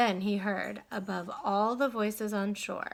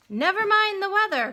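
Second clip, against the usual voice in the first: loud, high dismissive shout; crying out; 11 semitones higher, 8 dB louder, faster than usual. Acted. Owner shouting back to Stuart from shore, loud. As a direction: yell it over the wind. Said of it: "cried the owner".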